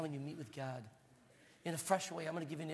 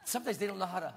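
laughing; 4 semitones higher, 6 dB louder, faster than usual. Real, not acted. Laughing about the band.

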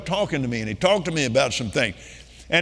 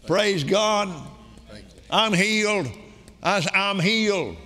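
raised, declaring testimony voice; retold proclamation; 4 semitones higher than usual. Man announces to Almighty God that he's healed, proclaiming. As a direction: announce it to heaven and hell, pitched high.

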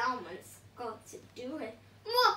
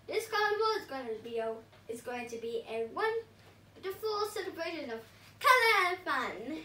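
Sweet Potato voice. Acted. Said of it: "said Sweet Potato".

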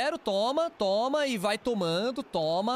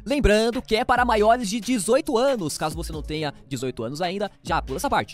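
loud, punchy sponsor read; 8 dB louder than usual. Acted. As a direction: sell it like a radio ad.

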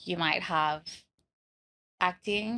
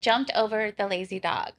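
American accent. Shown as a demonstration. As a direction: repeat it carefully in an American accent. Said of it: "You do a good American accent".

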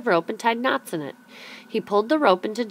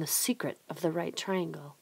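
whispered, much softer; secretive whisper; 9 dB quieter than usual. A narrator's reading. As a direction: hush it like a secret. Telling the secret.

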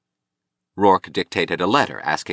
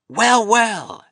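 put-on very high, drawn-out drunken greeting; mock welcome from a drunk man, pitched way up; 4 dB louder than usual. A narrator's reading. Drunk sculptor greeting Rourke at the door, swaggering. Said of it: "He was obviously drunk".

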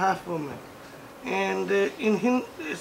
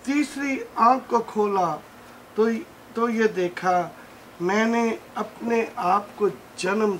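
measured Hindi-Urdu verse recital, phrase by phrase; poem recitation; much faster than usual. Acted. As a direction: recite the verse with deliberate pauses between lines. Recites his own poem.

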